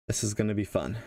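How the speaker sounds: dry, half-joking enthusiasm; half sarcastic. Real, not acted. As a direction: say it with a wry edge. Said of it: "I'm also being half sarcastic".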